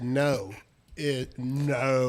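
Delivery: "no" with a long drawn-out vowel, mimicking; imitated accented "no". Host mimicking Todd's accent, drawn-out "no". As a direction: stretch the "no" in mock accent. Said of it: "even the way he says no".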